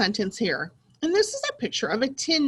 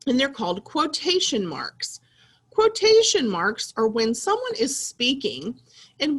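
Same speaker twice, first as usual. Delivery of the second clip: whisper; 3 semitones higher than usual. Acted. Teacher whispers explanation.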